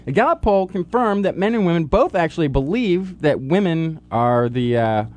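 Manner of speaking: news read. Acted.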